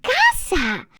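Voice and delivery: casa said KAH-sah, open Spanish vowels; Spanish word. Shown as a demonstration. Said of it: "you say casa".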